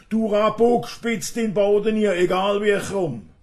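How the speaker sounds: high, loud tirade of threats; acted angry scolding. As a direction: lay into a cheeky fellow, loud and high. Acted scolding quarrel in a poem. (laut und hoch schimpfend, gespielter Zorn)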